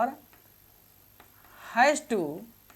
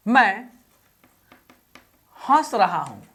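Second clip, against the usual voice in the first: slow dictation; 3 semitones lower, slower than usual. Shown as a demonstration. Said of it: "देखिए, इसमें भी".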